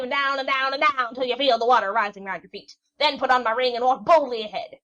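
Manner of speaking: loud, high, exasperated crone; an old witch yelling directions at the sailor; shrieking witch. A narrator's reading. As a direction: shout down every question. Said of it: "cried out again".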